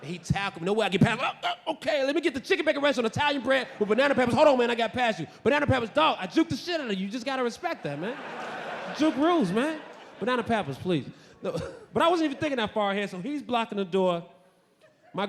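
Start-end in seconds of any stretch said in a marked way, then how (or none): 1.3-11.1 higher-pitched acted bustle; playfully cocky, raised voice; hurried sandwich order. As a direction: call out the order mid-scuffle. Acts ordering while dodging guard.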